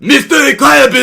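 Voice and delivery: hammed-up thick French accent; high laughing French accent. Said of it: "thick French accent".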